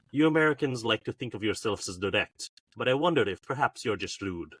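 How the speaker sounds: put-on light Russian accent, cool and cutting. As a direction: deliver it as a haughty Russian. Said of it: "to do the Russian accent".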